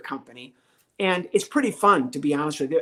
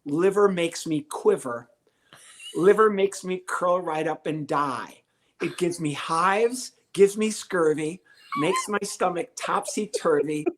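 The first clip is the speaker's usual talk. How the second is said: slow lyric reading; slower than usual. Retold or imitated. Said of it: "The first lyric is".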